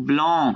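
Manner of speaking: ব্লং with a long French nasal o; nasal vowel demonstration. Shown as a demonstration. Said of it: "আ এন মিলে অ হয়".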